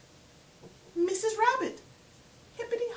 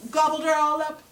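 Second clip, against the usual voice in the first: hushed whisper; hushed storyteller whisper; 2 semitones higher, 8 dB louder, faster than usual. A narrator's reading. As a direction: whisper it like a guilty secret. Greedy Anansi eats the duck.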